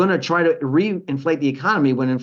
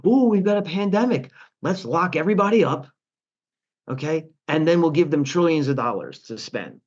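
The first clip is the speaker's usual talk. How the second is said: mock officials; 3 semitones higher than usual. Mocking Treasury and Fed officials.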